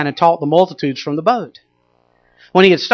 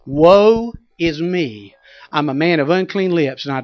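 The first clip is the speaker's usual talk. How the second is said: lament; 3 semitones lower than usual. Acted. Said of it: "Isaiah said it this way".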